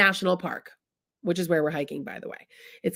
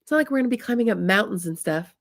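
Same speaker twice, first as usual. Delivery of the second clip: husband soothing a panicking Tina; reassuring; 3 semitones higher than usual. Retold or imitated. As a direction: talk her down gently. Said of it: "he says".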